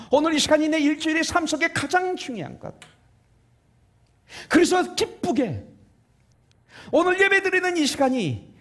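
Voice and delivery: high, emphatic pulpit voice; fervent preaching. Real, not acted. Preacher urges at full force.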